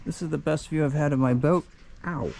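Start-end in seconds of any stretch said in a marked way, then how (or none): 2.0-2.3 sudden pain yelp; ow from a stubbed toe. Real, not acted. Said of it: "I just stubbed my toe on the cleat".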